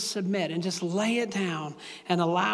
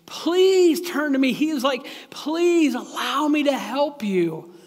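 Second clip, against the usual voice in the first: pleading father God; 4 semitones higher, 4 dB louder than usual. Pretend. God as a good dad pleading with his struggling child, louder. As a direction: beg the hurting child to come home. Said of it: "a good dad sitting on the throne, saying".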